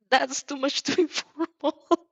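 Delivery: put-on earnest boy. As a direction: insist earnestly, drawn out. Character protests politeness.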